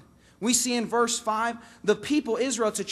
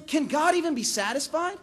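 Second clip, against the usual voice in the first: pitched-up exasperated question; mock complaint on Israel's behalf; acted aggrieved disbelief; exaggerated lament; 5 semitones higher than usual. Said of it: "Israel laments".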